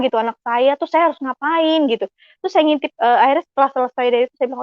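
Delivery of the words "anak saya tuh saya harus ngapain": higher-pitched puzzled question to oneself; mildly at a loss; retold bewilderment. Mother wondering what she must do, mildly puzzled. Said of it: "saya masih bingung kan gitu".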